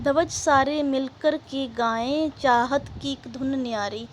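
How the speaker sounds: measured, rhythmic verse reading; poem recitation. Acted. Teacher reading the next verse to pupils, rhythmic recitation. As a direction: recite line by line with lengthened words.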